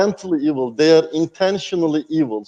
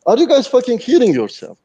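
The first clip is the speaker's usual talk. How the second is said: angry outburst; 6 semitones higher, 3 dB louder than usual. Real, not acted. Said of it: "angry talk in the last five minutes".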